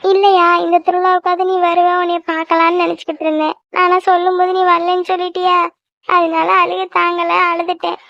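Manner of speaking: mildly tearful mother, slowing at times. Acted. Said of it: "ஏன் இப்படி அழுகுற? அழுகாத". (லேசான அழுகையோடு பேசும் அம்மா)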